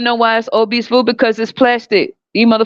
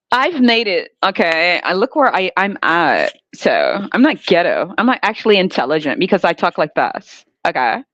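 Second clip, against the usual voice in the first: mock proper voice; 2 semitones lower than usual. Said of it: "code switch".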